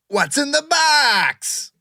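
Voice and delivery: drawn-out, high, eerie question; dramatic movie quote. Pretend. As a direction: ask it like a creepy thriller line. Host poses the game question.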